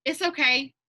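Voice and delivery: P=A; calm reassurance. Retold or imitated. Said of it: "just be like".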